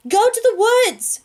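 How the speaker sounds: high, loud, slow shouted order; yell back. Acted. Six yelling back to the narrator, high, loud and slow. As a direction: call it back across the room. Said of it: "she yells back".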